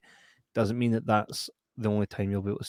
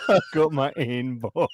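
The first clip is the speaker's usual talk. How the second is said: laughing. Retold or imitated. Repeating the pun, laughing.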